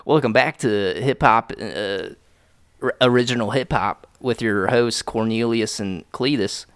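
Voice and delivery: mock country radio host; country accent. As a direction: welcome listeners in a put-on country accent. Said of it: "doing the fucking country accent".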